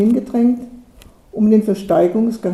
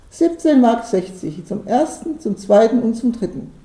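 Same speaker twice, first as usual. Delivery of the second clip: official, amused. A narrator's reading. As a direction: announce it officially with a smirk in the voice. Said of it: "amtlich, doch immer noch schmunzelnd".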